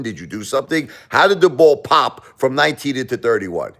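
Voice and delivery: high-pitched, incredulous arguing; acted indignant protest. Gambler disputing a lost roulette bet with pit boss, indignant protest. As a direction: argue the case as a baffled, cheated gambler.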